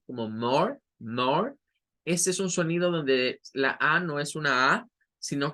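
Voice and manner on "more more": more with an a-o blend; more with a rounded open vowel; more, rising; American mar as more. Shown as a demonstration. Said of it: "primer sílaba M A R".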